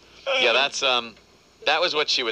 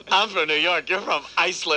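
higher-pitched mock argument; mocking retort; 5 semitones higher than usual. Co-host mimicking the on-air spat, mocking. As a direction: throw it back as a taunt.

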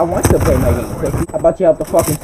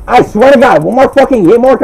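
raging shout; 6 semitones higher, 8 dB louder than usual. Real, not acted. Raging at game hit registration.

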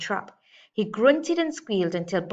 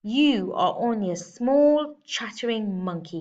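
growling bear; 3 semitones higher, 5 dB louder than usual. Acted. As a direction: sneer down at the little monkey. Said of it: "he growled".

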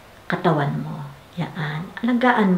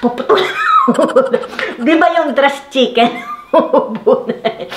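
laughing; 6 semitones higher, 3 dB louder than usual. Real, not acted. Laughing at chicken comparison.

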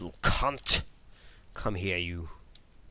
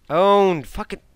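higher, louder triumphant cry; gloating shout; 9 semitones higher, 9 dB louder, slower than usual. Real, not acted. Gamer gloating after killing an enemy. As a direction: crow at the victim.

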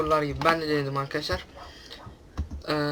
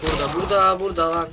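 excited; 5 dB louder than usual. Real, not acted. Spotting an enemy mid-game.

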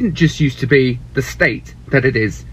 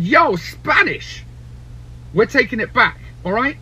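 mock shout; 4 semitones higher than usual. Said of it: "he said".

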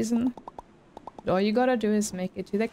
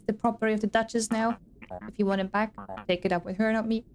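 a lightly voiced cocky shark, dismissive; smug shark guard. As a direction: brush the hero off like a bored bouncer. Reads the shark's lines.

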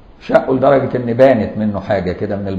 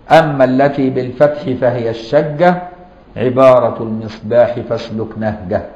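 reciting verse. Shown as a demonstration. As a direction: recite it steadily so it sticks. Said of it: "يقول لك".

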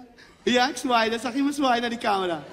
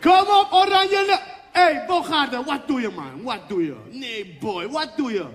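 high, loud sideline yelling with laughter; yelling coach; 6 semitones higher, 5 dB louder than usual. Retold or imitated. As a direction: coach screaming at players and referee, half laughing. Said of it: "Let op".

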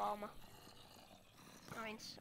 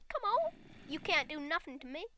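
taunting; 4 semitones higher than usual. Pretend. Taunting game enemies.

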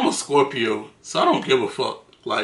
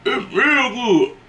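high, slow forced compliment; mock sweet lie about bad food; fake polite praise; 10 semitones higher, much slower than usual. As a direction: hide the disgust behind a high, slow "real good". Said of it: "I said".

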